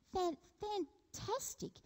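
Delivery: slow, drawn-out mock praise; sarcastic fantastic. Preacher mocking the people's idolatry, slow sarcastic drawl. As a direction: drip irony on it. Sarcastic aside about golden calf.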